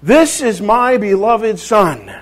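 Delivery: God's voice, slow, loud and high; booming voice from heaven. Acted. Preacher voices God from heaven, slow booming voice. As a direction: boom it out slowly from heaven. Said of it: "this booming voice from heaven".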